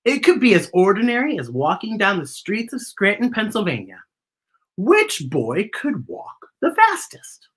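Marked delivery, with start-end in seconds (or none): 4.8-7.5 slow hushed whisper. Acted. Host telling kids a secret, whispered. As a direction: let it drop to a secret whisper.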